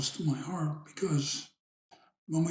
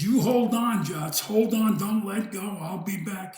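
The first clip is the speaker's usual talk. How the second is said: half-raised imitation of a shouted instruction; retold yell; 3 semitones higher than usual. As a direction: urge a friend to hang on, as if calling down. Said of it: "And Pete yelled down".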